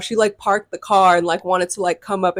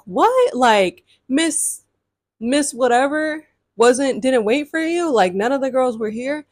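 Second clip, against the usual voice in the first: surprised mom; 5 semitones higher, slower than usual. Retold or imitated. Troop mom surprised, confused.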